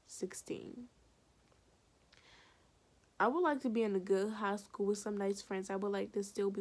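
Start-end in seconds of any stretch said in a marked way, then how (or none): 0.1-0.9 whispered. Real, not acted. Reveals age in a whisper.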